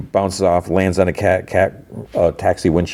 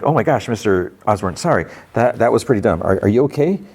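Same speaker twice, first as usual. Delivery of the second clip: higher, concerned retold apology; flustered apology; 5 semitones higher than usual. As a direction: apologize sheepishly, pitch climbing into the question. Apologizes after scaring his mentor.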